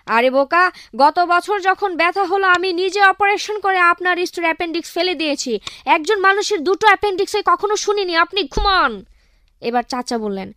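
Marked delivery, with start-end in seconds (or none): 0.1-8.9 irritated scolding. Acted. Annoyed doctor scolds caller.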